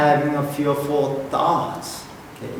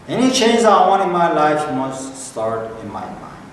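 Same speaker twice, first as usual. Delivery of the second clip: leading a group recitation; 2 semitones higher than usual. Shown as a demonstration. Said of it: "So let's repeat after me".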